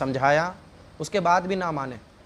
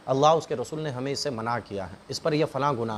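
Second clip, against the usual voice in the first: softer, lower voice, calmly advising a son; serious gentle counsel; 6 semitones lower, 4 dB quieter than usual. Acted. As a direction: talk it through quietly like a caring father. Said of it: "اس کو سنجیدگی سے سمجھائیں". (نرمی اور سنجیدگی سے سمجھاتا باپ)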